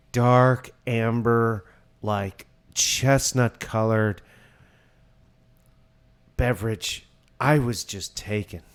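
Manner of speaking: hammed-up wine critic delivery; overdone beer review. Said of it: "he's trying too hard".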